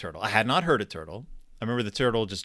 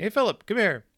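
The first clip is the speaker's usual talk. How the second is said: high, raised call across the water; dad calling out; 9 semitones higher than usual. Retold or imitated. Dad calls son from the far end of the pond, raised high call. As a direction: call the kid over from a distance.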